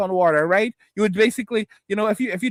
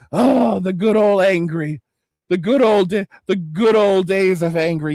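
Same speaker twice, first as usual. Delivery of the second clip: mock chat voice; 4 semitones lower, slower than usual. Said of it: "you guys are sitting there like".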